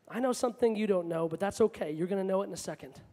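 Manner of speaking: low, soft, knowing reassurance; quiet knowing joy. Acted. Preacher voices Jesus looking at us, quietly knowing. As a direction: say it softly, like someone keeping a good secret. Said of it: "just that knowing joy".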